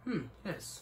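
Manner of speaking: attempted British, landing Australian; Australian accent. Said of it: "You went to Australian accent".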